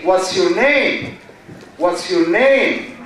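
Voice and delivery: slow question with "name" drawn out and arched; high intonation pattern. Shown as a demonstration. Teacher demonstrating question tune to class, high pattern. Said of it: "This is a high".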